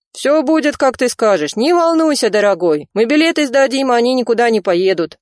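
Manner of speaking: calm him down over the phone; reassuring cousin. A narrator's reading. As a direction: cousin reassuring a frightened Rizo.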